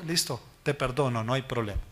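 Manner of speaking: low, soft, casual reassurance; easygoing forgiveness. Acted. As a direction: let it go quietly, no fuss. Acts out forgiving an offender.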